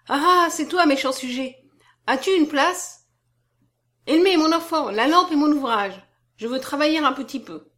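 put-on loud, high-pitched old lady; vieille dame. A narrator's reading. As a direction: call out eagerly as a roused old woman. Roused old lady calls out. (voix haute et forte de vieille dame)

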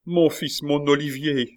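high, anguished calling; mother's wail. A narrator's reading. Mother screaming to her son under the blade, high wail. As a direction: cry out far up in pitch. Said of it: "hurla la mère".

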